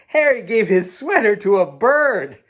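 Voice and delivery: put-on children telling Grandma about the bird, high and excited; excited kids.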